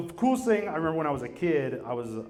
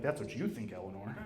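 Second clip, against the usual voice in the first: sinister husband; 6 semitones lower, 9 dB quieter than usual. Retold or imitated.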